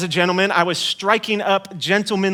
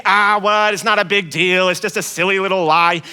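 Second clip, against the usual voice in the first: dismissive listener. Pretend. Imagined listener shrugging off the lie, lightly dismissive. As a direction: wave it away as nothing. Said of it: "you might think".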